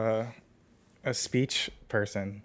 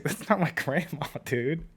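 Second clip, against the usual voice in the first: retold protest; 3 semitones higher than usual.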